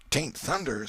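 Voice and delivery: a touch of awe, lightly voiced; awed tone. A narrator's reading. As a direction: Huck murmuring to the boys, lightly awed. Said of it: "said Huckleberry in an awed tone".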